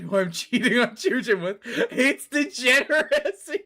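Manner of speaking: giggling through the text; laughing while reading. Real, not acted. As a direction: barely hold it together reading the line. Reading absurd game line aloud.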